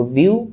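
বিউ said as one unbroken syllable; syllable demonstration. Shown as a demonstration. Teacher showing students the first syllable, বিউ as one separate beat. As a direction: sound out বিউ as a single beat. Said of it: "তুমি উচ্চারণ করে দেখো".

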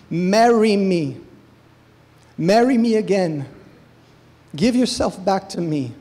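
passionate plea. Acted. Bridegroom to harlot bride, a passionate plea. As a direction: beg her to come back.

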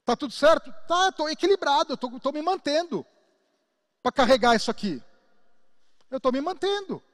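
high, straining voice holding a great weight; pushed-up strained voice insisting all is fine; strained under a heavy load. Pretend. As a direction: grit it out like you're carrying a huge sack. Acting as strained cell carrying weight.

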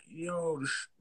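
whispered, unvoiced realization; awed whisper. Watching a rapper record and catching his trick, whispered. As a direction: breathe it out like a discovery. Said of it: "and I'm like".

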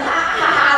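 high-pitched mimicked ha-ha-ha; imitated laughter. Doctor describing audiences laughing at a show, imitated laughter. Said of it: "都笑得哈哈哈哈".

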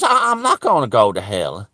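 low, soft, unruffled reply; peaceful and calm. Retold or imitated. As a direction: answer the accusation with quiet calm. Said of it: "he had this peace and calm".

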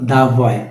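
দা বয় with an open "daa"; "thuh" before consonant. Shown as a demonstration. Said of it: "এটা কি consonant sound".

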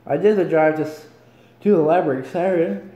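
words stretched by a yawn; reading while yawning. Real, not acted. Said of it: "Sorry for the yawns".

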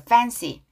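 "fancy" starting on a clear F; careful F sound. Shown as a demonstration. Teacher models the word for learners, careful F. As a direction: make the F of "fancy" distinct. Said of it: "fancy 할 때 F 발음 주의".

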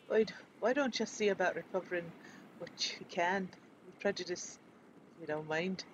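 lightly put-on Scottish accent reading quest text; a half-hearted Scottish burr for the quest giver; faint mock Scottish accent; terrible Scottish accent. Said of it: "I'm using a terrible Scottish accent".

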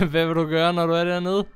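high, loud gloating at a stranded foe; gleeful taunting. Real, not acted. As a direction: taunt the little werewolf from safety. Taunts werewolf stuck down below.

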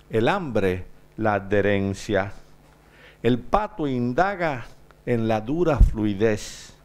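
measured Spanish poem reading with long pauses; solemn poet's cadence, pausing between lines; poetry recitation. Acted. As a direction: recite line by line, letting each phrase fall at the end. Poet recites own Spanish poem.

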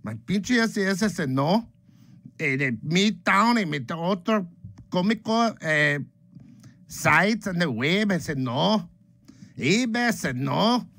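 hammed-up buyer rage; mock frustrated. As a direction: whine at every site saying no. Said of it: "And then you're like".

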